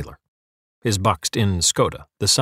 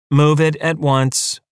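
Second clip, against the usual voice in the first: threatening; 5 semitones higher, 4 dB louder, slower than usual. A narrator's reading. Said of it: "threatening statement".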